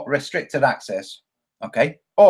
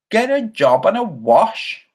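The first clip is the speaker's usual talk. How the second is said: slower, higher disbelieving repeat; incredulous echo; 6 semitones higher, slower than usual. Real, not acted. Streamer repeating a viewer's insult, half amused. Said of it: "somebody called Gas eight two eight two".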